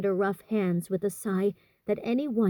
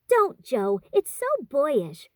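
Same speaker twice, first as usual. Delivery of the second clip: reproving; 6 semitones higher, 4 dB louder, slower than usual. A narrator's reading. Amy scolding Jo.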